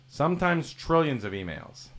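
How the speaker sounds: "trillions" pitched high and slow; mock-grand escalation. Host exaggerating his inbox, "trillions" high and stretched.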